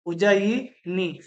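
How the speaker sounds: उज्जयिनी drawn out syllable by syllable, very slow; slow spelled-out word. Shown as a demonstration. Teacher slowly sounds out उज्जयिनी for students. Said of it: "उनमें ये ध्यान देना".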